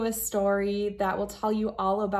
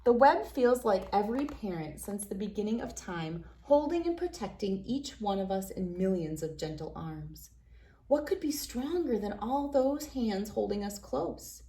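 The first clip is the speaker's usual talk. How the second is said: put-on reading to children. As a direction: read it like a bedtime picture book for kids. Reads picture book to children.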